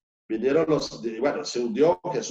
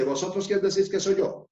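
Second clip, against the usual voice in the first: emphatic question; 6 semitones higher than usual. Acted. Preacher voices Jesus asking.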